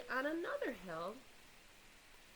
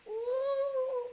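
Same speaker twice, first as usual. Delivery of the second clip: much higher, louder ooh; bigger ooh; 14 semitones higher, 8 dB louder than usual. Acted. Story listeners marvel at the wobbling egg, high ooh. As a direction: gasp of amazement stretched out.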